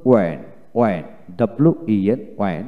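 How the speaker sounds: ওয়েন starting on w, no h; ওয়েন with a plain w onset; British w pronunciation. Shown as a demonstration. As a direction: drop the h, say ওয়েন. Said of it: "British উচ্চারণটা হলো ওয়েন".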